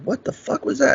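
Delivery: high-pitched shocked disbelief, acted out; startled. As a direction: retell being caught completely off guard, voice shooting up. Retells his shock at being kicked.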